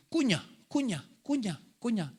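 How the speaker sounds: lightly imitated, repetitive coaxing; mom urging. Preacher imitating mom telling him to chew, lightly voiced repeated urging. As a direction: prod a child with evenly spaced repeats. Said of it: "mami saya suka bilang gini".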